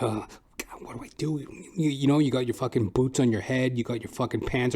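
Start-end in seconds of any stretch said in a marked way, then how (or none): 0.0-1.4 panicked whisper. Retold or imitated. Kid panics in his room.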